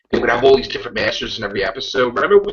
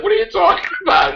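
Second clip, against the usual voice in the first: mock disbelief. Friends react to the Doctor.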